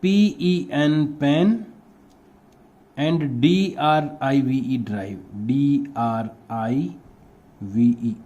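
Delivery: teacher spelling pen drive for pupils to copy; slow dictated spelling. Shown as a demonstration. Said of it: "उसके बाद में है पेन ड्राइव".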